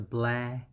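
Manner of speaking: "bla" sounded out alone with an open A; teacher demonstrating "bla" by itself; syllable breakdown. Shown as a demonstration. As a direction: isolate "bla" as the first syllable. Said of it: "pronunciation is".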